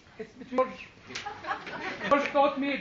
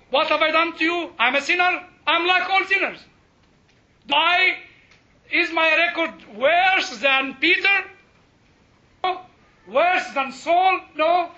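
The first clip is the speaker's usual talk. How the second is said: raised, higher-pitched challenge to God; indignant protest; 4 semitones higher, 5 dB louder than usual. Acted. Sinner arguing his case with the Lord, indignant protest. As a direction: plead your case with force, stretching the questions.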